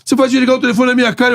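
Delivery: lightly voiced indignant boss; mild boss impression; Eurico scolding.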